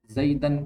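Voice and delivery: زیدن with a clear -an ending, zaidan; showing the accusative ending of زیدن; case ending demo. Shown as a demonstration. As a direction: end the word on an open -an. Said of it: "ہم تلفظ کر رہے ہیں اس پہ".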